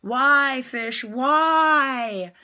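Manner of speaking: hammed-up wail of annoyance; mock aggravated. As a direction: ham up being fed up. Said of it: "you can either be like".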